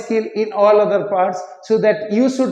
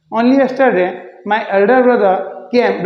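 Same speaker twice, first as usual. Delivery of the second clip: normal talking voice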